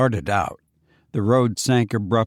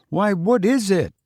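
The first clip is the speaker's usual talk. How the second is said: higher, puzzled question; Foster surprised; 8 semitones higher than usual. Acted. Foster asks why Fenwick laughed, higher and puzzled. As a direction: ask it higher, taken aback.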